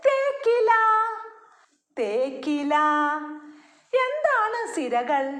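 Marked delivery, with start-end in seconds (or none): 0.1-0.7 model word. Shown as a demonstration. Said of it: "തേക്കിന്റെ ഇലയാണ്". 2.0-2.7 put-on children's echo. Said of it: "തേക്കിന്റെ ഇലയാണ്".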